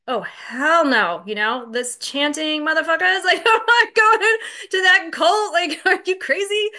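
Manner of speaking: high, loud, laughing scoff; mocking disbelief through laughter. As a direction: laugh off the idea as a joke. Scoffing at sponsor's AA suggestion.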